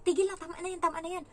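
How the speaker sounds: high, insistent order to stop; urgent telling-off. Retold or imitated. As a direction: act out pleading firmly with a child. Acts out ordering child to stop. (mataas at mapilit na pagsaway)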